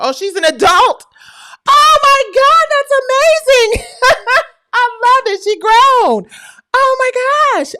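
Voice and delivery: very high, loud squeal with laughter; overjoyed shrieking. Real, not acted. Streamer learns her namesake is grown, ecstatic. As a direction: scream with delight, breaking into laughter.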